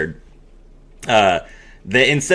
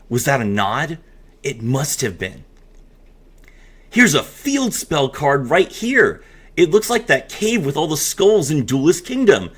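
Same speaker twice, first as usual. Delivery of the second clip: storyteller voice for a promo; dramatic reading. Acted. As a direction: read the story with relish.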